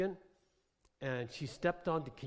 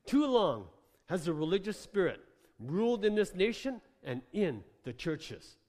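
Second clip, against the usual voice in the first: emphatic prophetic sermon, swelling in force; fiery preaching; 5 semitones higher, 6 dB louder than usual. Acted. Preacher declaring a noisy, bold people, fiery preaching. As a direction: preach it boldly, punching key words.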